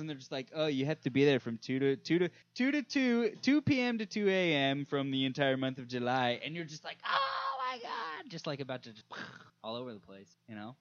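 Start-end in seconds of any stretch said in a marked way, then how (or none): 0.5-6.4 a lightly voiced service rep; mock cable company voice. 7.0-8.3 high, stretched-out groan; a slow high moan of disbelief; exasperated wail. Retold or imitated. Exasperation at the cable company.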